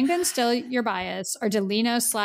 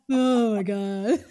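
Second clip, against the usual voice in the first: laughing oh my god; 2 semitones higher, 4 dB louder, much slower than usual. Real, not acted. Overwhelmed laughing exclamation.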